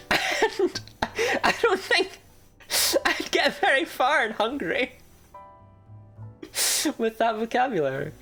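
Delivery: high squeaky voice; cute anime streamer. Real, not acted. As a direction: squeak it out playfully.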